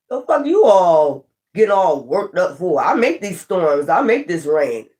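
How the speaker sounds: slow, easy and unruffled, a hint of divine cool; unbothered calm. Yahshua talking down to panicked disciples, slow and calm. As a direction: lean back and shrug off the storm. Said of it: "Yahshua was sitting up there all calm".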